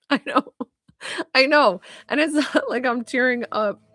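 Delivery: tearful, with a little laugh breaking in; tearing up. Real, not acted.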